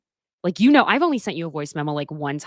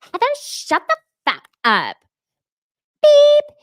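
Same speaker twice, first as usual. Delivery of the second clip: mock angry snap; 9 dB louder than usual. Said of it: "when Monica's like".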